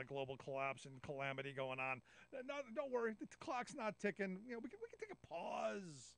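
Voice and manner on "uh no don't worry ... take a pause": mock southern drawl. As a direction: tease them in a hammed-up Southern drawl. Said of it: "your southern accent drawl you was doing".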